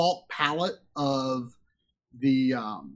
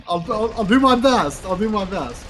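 laughing; 5 semitones higher, 4 dB louder than usual. Real, not acted. Laughing while reading a donation.

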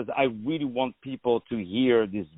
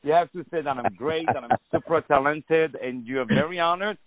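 fast, teasing, pitched higher by the end; mock demanding; 3 semitones higher than usual. Host jokingly demanding compliments from the guest, mock bossy. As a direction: playfully insist on being praised.

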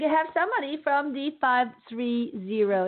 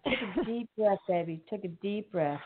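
soft, lowered, tender reassurance; soothing; 3 semitones lower, 4 dB quieter than usual. Real, not acted. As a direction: gently settle a nervous caller, sinking softer. Calming a nervous caller.

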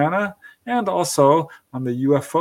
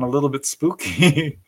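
laughing; 3 dB louder than usual. Real, not acted. Host laughs describing EVP.

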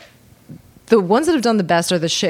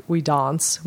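posh South African; 3 semitones lower, 4 dB quieter than usual. Retold or imitated. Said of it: "your A's are all long A's".

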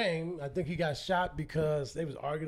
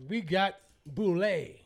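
slow, posh put-on voice; North Side white people voice; slower than usual. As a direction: put on a fancy uptown voice. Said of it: "North Side white people voice".

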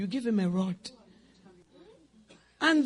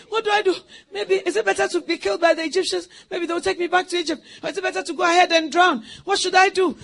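panicked worrying; 5 semitones higher, 4 dB louder, faster than usual. Retold or imitated. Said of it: "you want to say".

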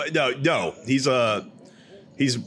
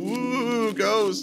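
spooky ooh; 9 semitones higher than usual. Acted. Spooky ghost arrives.

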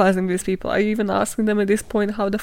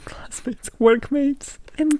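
breathy laugh through classmates; 4 semitones higher, much slower than usual. Real, not acted. Host laughs at her own word, saying classmates.

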